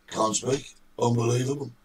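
hoarse, croaky morning voice. Real, not acted. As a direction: speak through a croaky throat. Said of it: "You have that croaky voice".

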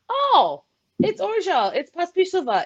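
imitating Diane. Co-host mimics Diane pronouncing players' names with ease. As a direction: toss the names off lightly and confidently. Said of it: "she always says it like".

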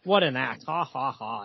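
imitating a guy laughing it off; lightly acted, amused scoffer; mock laughing. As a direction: read out a hearty mock "ha ha ha". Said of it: "there's some guy here laughing".

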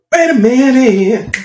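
high, slow muffled mockery; muffled wah wah talk. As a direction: drag it out like muffled grown-up talk. Mocking co-host's muffled talk.

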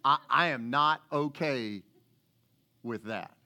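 Peter digs in, Rankin County style. Acted. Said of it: "Rankin County interpretation".

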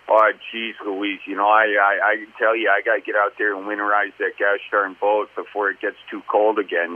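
low, even Midwest accent from the bottom of the jaw; thick Midwest accent, jaw barely moving; cliche Midwest accent. Shown as a demonstration. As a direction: talk Midwest as if only the jaw moves in the cold. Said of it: "talking, like, from the bottom of your jaw".

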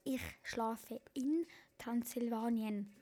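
slow, careful repeat; slow again because she did not get it. Shown as a demonstration. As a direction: spell it out slowly for her.

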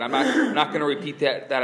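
high laughing refusal. Real, not acted. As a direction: laugh through the words.

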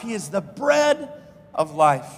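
shouted pulpit declaration, falling at the end; shouted preaching. Acted. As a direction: shout "He is the bread", drop on "of life".

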